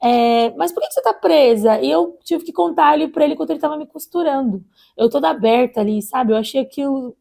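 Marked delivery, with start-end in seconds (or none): 0.0-1.8 imitated nosy doctor. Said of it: "umas perguntas bem invasivas".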